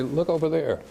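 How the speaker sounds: trying to get the big men to look; mock eager kid calling for attention; eager showing off. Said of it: "pick the gun up and say".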